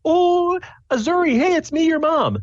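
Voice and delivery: very high-pitched excited mom voice; mom calling out. Acted. Mom hails Azuri from the coach, calling out. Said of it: "pops her head out and yells".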